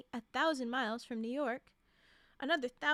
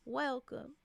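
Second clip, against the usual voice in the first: soft Southern twang. Acted. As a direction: welcome with a Southern accent. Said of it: "His voice had a soft Southern twang".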